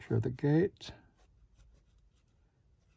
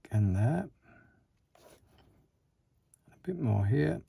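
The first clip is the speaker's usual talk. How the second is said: speaking while holding breath; tense, breath held in concentration. Real, not acted. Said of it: "Sorry, I'm holding my breath here".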